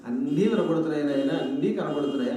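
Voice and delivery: lightly acted serene sage; calm reply. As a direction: answer with mild, untroubled patience. Serene Buddha answers the angry miser.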